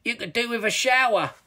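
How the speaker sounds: high, teasing troll voice; chuckling troll. A narrator's reading. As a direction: gloat over the trapped hero. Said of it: "chuckled Toilet Troll".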